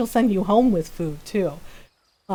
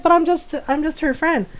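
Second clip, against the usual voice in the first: higher-pitched protest as the friend; protest, pitched up, like a flustered guest; imitated protesting friend; 6 semitones higher than usual. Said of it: "She's like".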